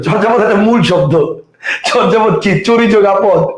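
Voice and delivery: laughing through the words; slowed, chuckling tease of a silly question; amused teasing. Real, not acted. Laughs while mocking a student's question.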